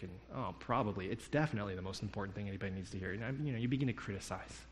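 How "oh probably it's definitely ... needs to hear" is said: low, quick critical aside; nitpicking. Retold or imitated. Listener silently picking at a surfer's witness, nitpicking. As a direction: pick at his wording under your breath. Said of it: "I immediately begin to pick".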